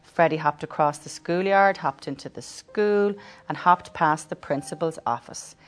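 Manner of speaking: lively storybook voice; reading to children. Acted. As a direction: read it warmly to children. Reads the story aloud.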